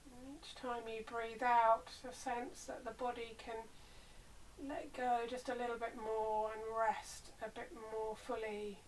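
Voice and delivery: unhurried body-scan guidance with long pauses; guided meditation. Real, not acted. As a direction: ease them into rest, leaving space between phrases.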